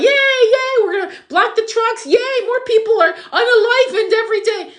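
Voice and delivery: high, squealing mock cheer of the flag wavers; mocking cheerleader voice. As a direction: sneer at them with a shrill fake celebration. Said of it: "with their little flag".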